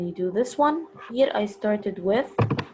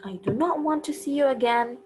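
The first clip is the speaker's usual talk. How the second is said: a teacher's light hint of a shout, a bit higher and quicker; mild mock shout; 5 semitones higher, faster than usual. Shown as a demonstration. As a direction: read the example as a half-hearted shout. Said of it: "shouted Nazira".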